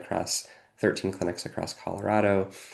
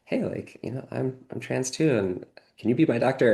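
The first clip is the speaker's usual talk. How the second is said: retold shy request, pitched up; patient coming out; 5 semitones higher than usual. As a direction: lightly voice a hopeful patient asking a favor. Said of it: "be like".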